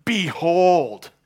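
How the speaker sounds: loud, high "behold" of wonder; big awestruck shout; awed proclamation. Acted. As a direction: cry it out in amazement. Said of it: "had to say, like John".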